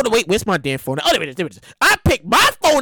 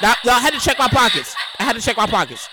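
laughing; 2 semitones lower than usual. Real, not acted. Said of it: "Stop laughing".

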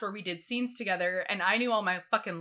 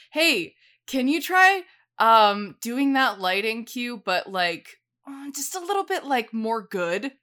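vague teacher request; 5 dB louder than usual. Retold or imitated. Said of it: "And he's like".

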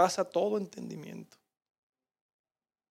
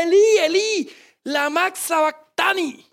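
cry of agony; 7 semitones higher than usual. Acted. Preacher voicing Jesus crying out from the cross in agony. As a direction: wail "Elí, Elí" from the cross in anguish. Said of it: "da ese grito de agonía".

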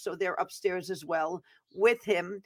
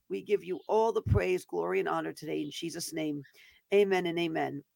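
prayer. Acted. Opening prayer before sermon.

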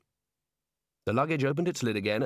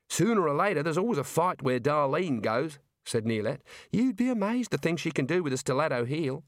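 Neilette's voice; 3 semitones higher than usual. Acted. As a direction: voice the girl asking for a hand.

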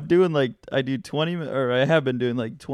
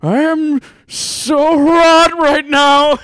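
put-on much higher, louder, slow accented wail; Asian accent; 13 semitones higher, 13 dB louder, much slower than usual. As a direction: cry out in an Asian accent, laughing. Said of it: "strong Asian accent".

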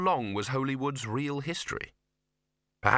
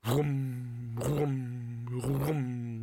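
distant whrum noise; 3 dB quieter, much slower than usual. A narrator's reading. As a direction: imitate a far-off throbbing machine, evenly. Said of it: "There was a distant".

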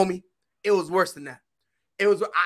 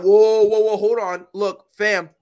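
scared pleading; 2 semitones lower than usual. Retold or imitated. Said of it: "I was like".

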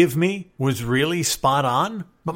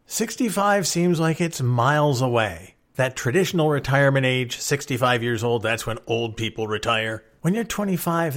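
usual speaking voice

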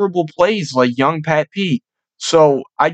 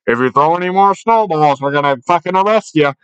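mock PA announcement. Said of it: "they always say over the fucking P A".

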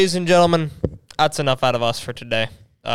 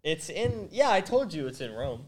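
whispering; 3 semitones higher, 9 dB quieter, slower than usual. Real, not acted. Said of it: "why are we whisper".

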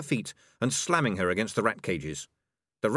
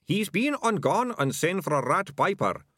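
much higher sidekick voice; dim thug sidekick; 10 semitones higher, 3 dB louder than usual. A narrator's reading. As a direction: announce the threat in a high thug voice.

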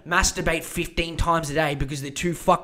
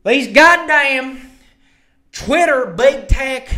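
higher, louder hammed-up outraged conspiracist; mocking right-wing politician; 4 semitones higher, 4 dB louder than usual. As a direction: ham up an indignant anti-vax rant. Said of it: "Let's see what she did".

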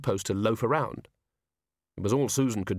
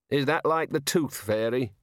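sarcastic; 3 semitones higher than usual. Acted. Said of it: "said the Dean sarcastically".

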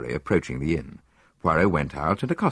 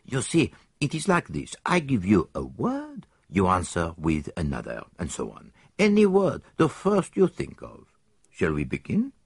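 lightly voiced Belgian detective; a hint of a fussy foreign sleuth; Poirot; 2 semitones higher than usual. Detective tells his friend where they will stay, lightly voiced.

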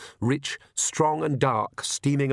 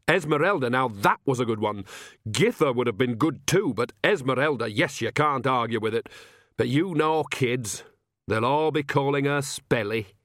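lightly voiced old village witch, chatty; Nanny, lightly voiced. Nanny on the baby's naming, lightly voiced, chatty. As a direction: chat away with a hint of character.

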